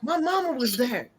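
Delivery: retold loyal vow. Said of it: "He was like".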